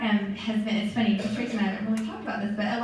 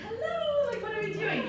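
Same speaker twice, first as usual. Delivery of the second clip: incredulous hello; 13 semitones higher, 3 dB quieter than usual. Real, not acted. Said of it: "scolding the team".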